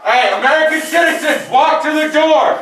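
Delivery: slow, firm order; shouted surrender demands. Real, not acted. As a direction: spell out the order slowly. Raid team clearing building.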